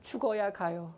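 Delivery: put-on whispered small-child voice; five-year-old's answer. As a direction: whisper it like a solemn little kid. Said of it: "오 세 반 아이가 이렇게 대답했습니다".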